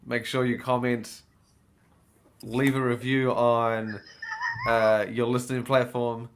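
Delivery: slow, deliberate podcast plug; recited sign-off. Retold or imitated. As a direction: recite the outro spiel in measured phrases. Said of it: "just delivered in a very different way".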